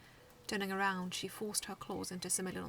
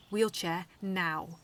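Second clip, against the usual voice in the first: ordered; 9 dB louder, much slower than usual. A narrator's reading. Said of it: "she ordered".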